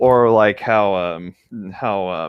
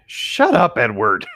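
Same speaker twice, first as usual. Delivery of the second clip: mock outrage; 2 semitones higher, slower than usual. Real, not acted. Yelling at character Edward.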